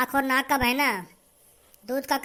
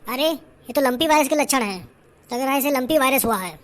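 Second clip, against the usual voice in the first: loud, firm village doctor diagnosing; doctor explaining the virus, loud and sure; 4 dB louder than usual. Acted. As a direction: speak up like a confident doctor. Performer plays the doctor.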